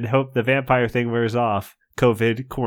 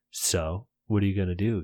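softer, hushed asking; quiet question; 4 semitones lower, 5 dB quieter than usual. Acted. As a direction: ask it quietly. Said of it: "Gabe asks quietly".

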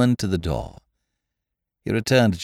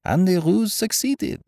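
put-on higher, pleased French-accented detective; cheerful; 11 semitones higher than usual. A narrator's reading. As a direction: say it with light, cheerful satisfaction. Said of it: "said Poirot cheerfully".

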